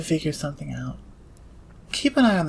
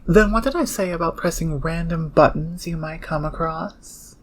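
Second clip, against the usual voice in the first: sarcastic scolding; 5 dB louder than usual. Acted. Berating newcomer for pressing buttons.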